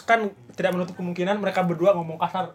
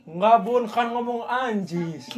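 put-on higher, excuse-making child; lightly voiced child; 3 semitones higher, much slower than usual. Child explains a slip to mother, lightly acted excuse. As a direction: drag out the last word as an excuse.

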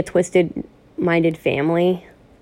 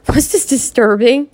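laughing; 4 semitones higher than usual. Real, not acted. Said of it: "I'm laughing".

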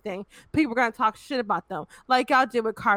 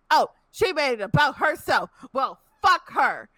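mock fan shout; 2 semitones higher than usual. Fans trashing a singer online, a mock angry shout. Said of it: "Y'all are just like".

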